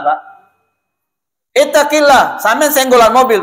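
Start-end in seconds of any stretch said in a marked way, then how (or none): 1.6-3.4 imitating angry Arab. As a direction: call it out like a mock rebuke. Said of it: "Kalau lagi marah". (menirukan orang Arab marah)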